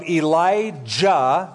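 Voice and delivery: Elijah with a clearly sounded J in JA; stressed J sound. Shown as a demonstration. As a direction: hit the J in "Elijah". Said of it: "J is in that word".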